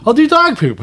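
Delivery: high-pitched mock eagerness; eager kid. Dad imitating his son offering to help, eager. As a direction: pipe up like a child volunteering.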